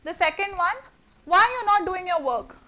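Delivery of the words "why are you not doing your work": calm, even, just asking; inquiring tone. Shown as a demonstration. Teacher showing a neutral asking tone to the class. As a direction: ask gently as a real inquiry. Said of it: "That's inquiry".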